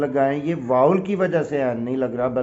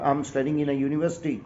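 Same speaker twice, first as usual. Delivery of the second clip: slower, softer correct example; correct version, slow; 4 dB quieter, slower than usual. Shown as a demonstration. Teacher reads the corrected sentence, measured and clear. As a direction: read the fixed sentence out clearly. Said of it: "یہ بات غلط ہوگی".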